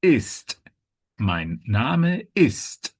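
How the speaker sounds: IST with a crisp final T; teacher stressing the T ending of IST; clear T sound. Shown as a demonstration. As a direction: model MEIN NAME IST slowly, releasing the T. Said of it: "the T sound is important here".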